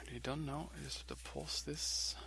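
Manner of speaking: mid-yawn, words stretched and soft. Real, not acted. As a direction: talk through a yawn. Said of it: "I'm telling you that the yawning".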